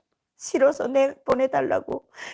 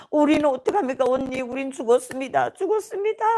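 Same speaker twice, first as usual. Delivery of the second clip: retold wailing. Cellmates bewailing their fate to older sister, mock wail. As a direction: lament helplessly, as an imitation of wailing. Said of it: "막 애들이 통곡하며".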